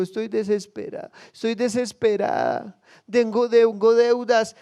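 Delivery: acted desperate plea, stretched at the end; desperate crying out. Preacher voices indebted woman crying to the prophet, desperate. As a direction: plead as if drowning in debt. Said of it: "ella fue clamando".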